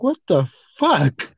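slow, drawn-out disbelief; stunned disbelief. Retold or imitated. Retelling his reaction to the video, slow and stunned. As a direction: stretch it out in shock. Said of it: "I'm like".

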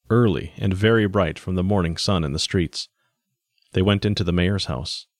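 measured, even audiobook reading; story narration. A narrator's reading. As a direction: narrate the story in evenly paced phrases. Reads the story aloud.

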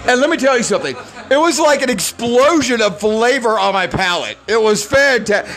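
lightly voiced snobby foodie; condescending roommate. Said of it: "he doesn't talk like this at all".

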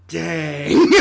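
Dang said loud through laughter; laughing Dang. Pretend. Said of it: "I will now do a dramatic monologue".

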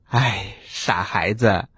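low, slow, fond chiding; tender mother frog. Acted. Mother frog to her silly children, low, slow and tender. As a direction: draw it out low and affectionately.

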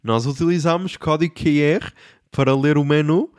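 a hint of a smooth radio-host waiter; mild mock radio voice. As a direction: lightly put on overly friendly host. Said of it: "com aquela voz".

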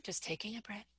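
soft breathy whisper. Shown as a demonstration. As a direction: whisper it to calm yourself. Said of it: "even the way you're saying it".

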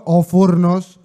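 blurting it out loud; exploding at the wife about the oven; loud outburst. Retold or imitated. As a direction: burst out at the ruined oven. Angry reply to wife.

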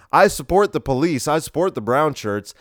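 hammed-up loyal cheer; mock conservative cheer. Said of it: "the conservatives would go".

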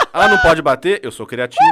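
shouted through laughter, half joking; laughing mock threat. Mother jokingly threatening her child, laughing and shouting. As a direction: threaten the kid while cracking up.

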